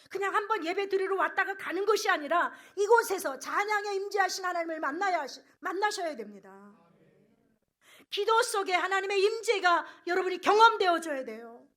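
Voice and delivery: high, very loud preaching; ringing, urgent pulpit cry; fervent exhortation. Real, not acted. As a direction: exhort the congregation at full force. Exhorts congregation at full force.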